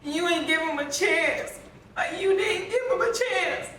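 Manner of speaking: high, pained angry yell at her; yelling in grief that she gave him no chance; mock-replayed furious yell; retold screaming. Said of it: "I just instantly started screaming".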